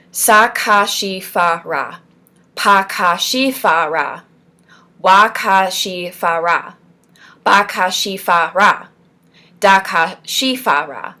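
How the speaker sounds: slow, separated syllable drill; measured chant-like nonsense sounds; clear articulation. Shown as a demonstration. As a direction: enunciate every syllable deliberately. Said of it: "you're supposed to be repeating it clearly".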